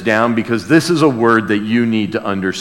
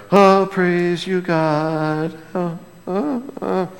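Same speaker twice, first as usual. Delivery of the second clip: mock praise; 4 semitones higher, 5 dB quieter, slower than usual. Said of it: "we go".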